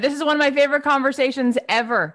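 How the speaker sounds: real thrilled enthusiasm; gushing praise. Real, not acted. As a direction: gush straight back at your guest. Host returns guest's compliment, thrilled.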